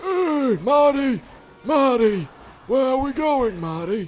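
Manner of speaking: put-on old man voice, pitched very high. Unable to do Marty McFly, he does Doc Brown instead: older Doc Brown impression. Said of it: "That's a little bit of an older version".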